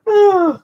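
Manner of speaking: high, loud sigh after laughing. Real, not acted. Storyteller recovering from his own story, high sigh.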